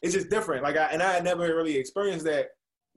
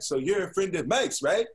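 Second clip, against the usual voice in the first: slow, higher imitation of an older man; imitating Jeff; 5 semitones higher, slower than usual. Imitating the affectionate older man greeting him, slow and higher. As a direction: lightly voice the friendly older guy, drawn out and higher. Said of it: "That's how he sounded".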